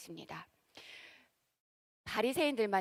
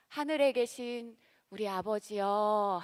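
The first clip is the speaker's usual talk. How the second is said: slow reverent prayer; slower than usual. Shown as a demonstration. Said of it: "주기도문을 어떻게 시작합니까?".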